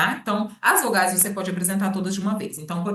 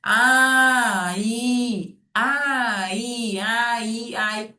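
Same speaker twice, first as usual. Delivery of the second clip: A and I run together faster until they blend into ai; a bit faster; 3 semitones higher, 3 dB louder, much slower than usual. Shown as a demonstration. Therapist blending vowels faster for the child, quicker. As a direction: speed up the vowels till they merge. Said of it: "Vamos falar um pouquinho mais rápido?".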